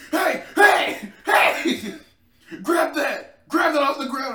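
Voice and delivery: loud high yell from outside. Retold or imitated. Imitating guys yelling outside to grab something. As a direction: shout it like dudes yelling in the street. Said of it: "Dude, you don't have to yell".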